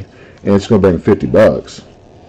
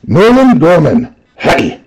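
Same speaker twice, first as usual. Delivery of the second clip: mock hype call, higher and slower on the name; imitating excited hype; 8 semitones higher, slower than usual. Japanese breaker calling out a Nolan Gorman hit, mock hype. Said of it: "It'd be like".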